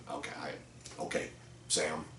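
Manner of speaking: an unvoiced, near-silent okay, stunned; stunned whisper. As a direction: breathe it out as if the words were knocked out of you. Stunned after being called stupid.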